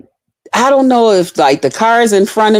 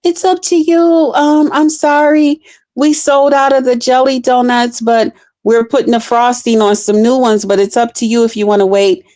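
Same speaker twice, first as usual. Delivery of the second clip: high, sweet apologetic counter voice, speeding up; sorry, sold out, your call; apologetic clerk; 5 semitones higher than usual. Retold or imitated. Drive-thru clerk apologising for the donuts, high and sweet. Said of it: "The lady said".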